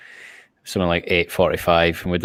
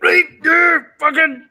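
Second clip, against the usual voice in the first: hammed-up Scottish accent, much higher and louder; mock Scottish ASMR host, pitched way up; Scottish ASMR impression; 6 dB louder than usual. Mocking the guest as a loud high Scottish ASMR whisperer. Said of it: "you imagine that as a Scottish A S M R".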